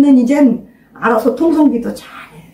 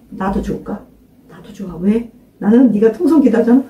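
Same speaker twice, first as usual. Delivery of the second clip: ordinary delivery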